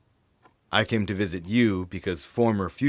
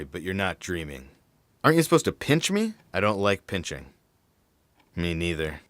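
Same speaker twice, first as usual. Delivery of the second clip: usual speaking voice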